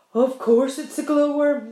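loud, know-it-all centipede. A narrator's reading. Centipede correcting James, brash and loud. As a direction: answer with brash certainty. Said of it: "the centipede answered".

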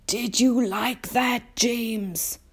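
put-on high, slow, kindly elderly insect; old grasshopper. A narrator's reading. Old grasshopper asks the small boy, slow and kindly. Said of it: "the old green grasshopper asked, smiling".

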